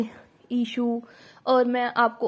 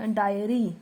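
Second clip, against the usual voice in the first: slow demo word; 3 semitones lower, slower than usual. Shown as a demonstration. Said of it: "मैंने एक और टिक लगा दिया".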